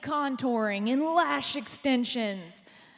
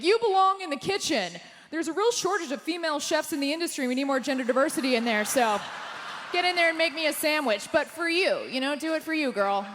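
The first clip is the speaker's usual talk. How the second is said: mock catcaller; 5 semitones higher, 3 dB louder than usual. Voicing the catcaller's lecture.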